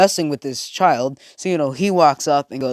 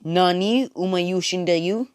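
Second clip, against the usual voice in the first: higher, slow drawn-out question; puzzled, pitched-up disbelief; bewildered; 5 semitones higher, slower than usual. Acted. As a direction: stretch the Japanese out in confusion. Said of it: "he's also thinking".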